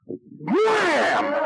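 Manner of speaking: a high, sudden shouted punch sound; imitated punch shout. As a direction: blurt it like a fist landing. Imagines knocking the guy out.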